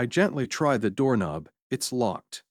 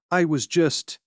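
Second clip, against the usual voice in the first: stammering; 5 semitones higher, 4 dB louder than usual. A narrator's reading. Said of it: "she stammers".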